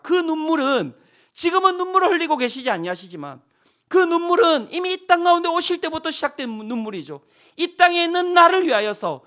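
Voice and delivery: impassioned preaching. Acted. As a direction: preach it with rising passion. Preaching climax.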